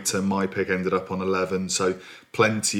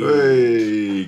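cheery hey; 4 semitones higher, 6 dB louder than usual. Real, not acted. Cheery exclamation at rival's loss.

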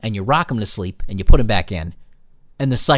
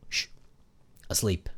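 whisper; 5 semitones lower, 14 dB quieter than usual. Real, not acted. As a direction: breathe the word out, much softer. Baby asleep, hushing.

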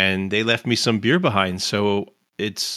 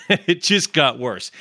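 slow, laughing through it; 3 semitones higher, slower than usual. Real, not acted. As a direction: chuckle the words out. Laugh heard on the line.

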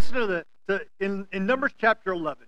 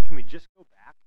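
put-on whiny child; 7 semitones lower, 11 dB louder than usual. Child on a car ride.

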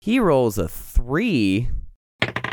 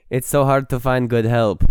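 put-on Russian accent. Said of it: "degenerates also into a Russian accent".

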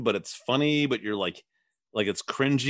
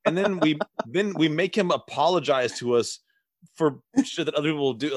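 mock smug parents; 5 semitones higher than usual. Mocking the family's self-praise.

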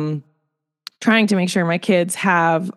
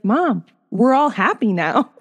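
lightly voiced little boy, higher and slow; young son; 4 semitones higher than usual. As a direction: imitate a child reassuring mom. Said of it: "he's like".

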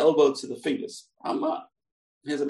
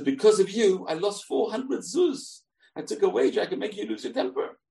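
frustrated complaint; 5 semitones higher than usual. Acted. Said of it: "gets frustrated and he loses temper".

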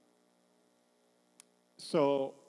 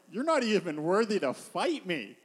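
swooping mock disdain; contemptuous Goliath; 3 semitones higher than usual. Goliath telling David he is unworthy, scornful contempt. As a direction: act out a scornful champion. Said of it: "he's holding him in contempt".

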